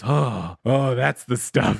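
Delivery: slow, mock relief; imitated calming down. Host imitating Hunter after smoking crack, mock calm relief. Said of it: "He really calms down".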